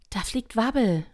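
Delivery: chorus cry. A narrator's reading. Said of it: "hörte sie einen allgemeinen Chor".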